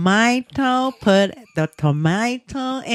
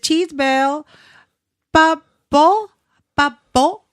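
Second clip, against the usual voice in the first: put-on higher, sing-song coaxing to a toddler; drawn-out calls to coax a toddler to say it; 6 semitones higher, slower than usual. Mother coaxing her baby to repeat, sing-song. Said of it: "I said".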